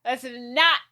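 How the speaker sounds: hammed-up telling-off, punched out; acted anger. Will telling off Gwen for lying, high indignant voice.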